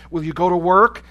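loud, pressing demand. A narrator's reading. Guard pressing a prisoner again to work, loud and demanding. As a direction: raise the voice in a guard's challenge.

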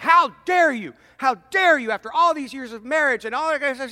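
high, loud, indignant mock shout; acted outraged wife. Wife phoning the husband she thinks left her, acted outrage. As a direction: blast him like a wife wronged. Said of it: "freaks out".

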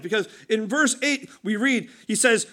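normal talking voice

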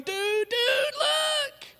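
high, loud, delighted shout; laughing excited shout. Retold or imitated. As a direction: yell it like giddy friends pointing. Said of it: "now they're laughing and going".

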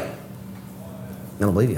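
very soft, slow, unvoiced-sounding murmur of doubt; hushed disbelief. Friends answer my Jesus testimony, hushed disbelief. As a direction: drop to a slow near-whisper, imitating doubters.

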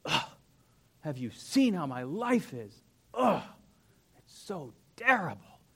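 mock whining complainer, groaning sighs; a complaining churchgoer moaning about life; whiny complainer. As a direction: whine about your burdens, hammed-up. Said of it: "they bring them into every conversation".

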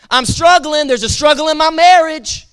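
mild mock scream; acted crying out. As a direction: call it out as a plea. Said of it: "people have been screaming out".

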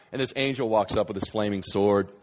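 usual speaking voice

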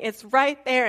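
neighbor insisting. Retold or imitated. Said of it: "she's saying".

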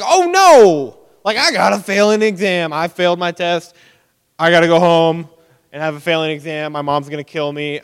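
high, loud mock panic over a failed exam; hammed-up teen despair, voice flying high; panicked student. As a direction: wail it like a kid who just flunked. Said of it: "more dramatic and, like, you know, higher pitched voices".

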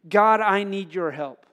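slow, loud and deliberate plea; clear cry to God. Acted. Jonah crying to God for help, slow and loud. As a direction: call it out clearly, each word given room. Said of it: "very specifically and very clearly".

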